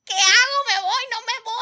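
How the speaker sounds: high, anxious mock panic; panicked dithering. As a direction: play your own frantic indecision. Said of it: "Y yo así como que".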